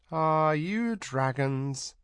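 light question. A narrator's reading. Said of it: "It was spoken lightly".

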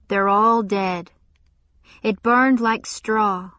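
slow, heavy, stunned; dazed grief. Acted. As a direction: let each word sink. Exhausted survivor, slow heavy.

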